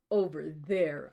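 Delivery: "Over there" read at normal pace; just read "Over there" as a command; plain order. Acted. Reader gives Grey's order to her, normal pace. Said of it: "I order".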